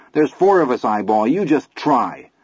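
defiant challenge. Acted. Chris challenges Eyeball.

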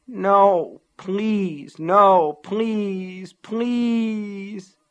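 high, pleading, desperate cries; anguished denial. A narrator's reading. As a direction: beg against what has happened. Broken sunglasses, desperate.

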